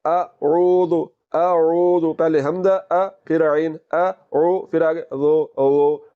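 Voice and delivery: slow अऊदु with hamza, ain, and dhal; tajweed demo of a'udhu; correct अऊदु. Shown as a demonstration. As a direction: say अऊदु without a whistling z. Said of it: "कैसे पढ़ना है?".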